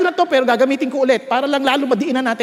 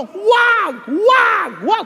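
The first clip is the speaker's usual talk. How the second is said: urgent inner warning; 6 semitones higher, much slower than usual. Retold or imitated. A voice in the pastor's ear warning him not to punch, urgent cry.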